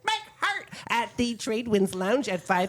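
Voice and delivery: chatty Midwestern mom reading listings; folksy Midwest accent, sing-song. Pretend. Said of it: "do it in my Midwestern mom voice".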